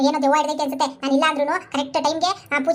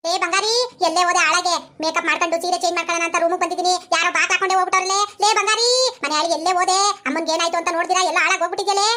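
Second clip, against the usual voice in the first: calling out; 3 semitones higher than usual. Acted. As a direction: yell through a locked door for help. Locked in room, calling out.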